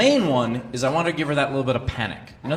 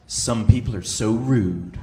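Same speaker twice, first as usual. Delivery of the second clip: snooty dismissal; 4 semitones lower, slower than usual. Retold or imitated. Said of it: "looks back at her phone and says".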